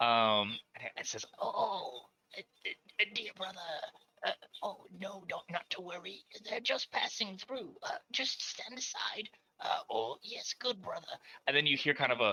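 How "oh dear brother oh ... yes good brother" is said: hushed, soft, weasel-like little voice. Game master voices a distant speaker the players overhear: weaselly voice. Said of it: "you hear this sort of like uh weaselly kind of voice".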